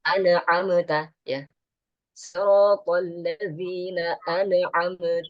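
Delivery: slow siratal ladzina an'amta with the mistake; wrong recitation. Shown as a demonstration. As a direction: demonstrate the error slowly. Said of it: "Nah, itu salah tuh".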